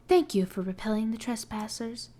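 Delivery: stiff, even robot voice. Shown as a demonstration. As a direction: read it like a robot. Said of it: "I'm gonna try to do a robot voice".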